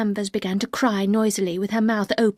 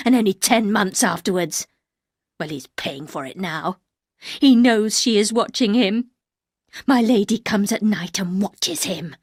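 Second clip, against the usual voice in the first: louder, hard-edged and cold; 5 dB louder than usual. Acted. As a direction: spit out the judgement. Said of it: "loud and hard".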